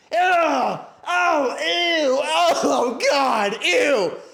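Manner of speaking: very high, disgusted shrieks, drawn out. Retelling how a passenger in the back reacted: imitating someone screaming. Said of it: "genuinely screaming, like".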